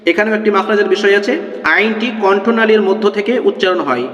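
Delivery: slow drawn-out spelling drill, each line twice; slow recitation. Shown as a demonstration. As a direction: chant each letter slowly for students to repeat. (ধীরে ধীরে বানান পাঠ)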